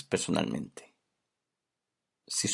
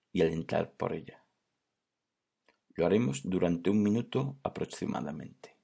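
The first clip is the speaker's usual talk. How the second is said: unhurried meditation guidance with long pauses; gently softened voice, leaving space between phrases; guided meditation; 5 dB quieter than usual. Real, not acted. Host guiding listeners into conscious breathing, calm guided-meditation delivery.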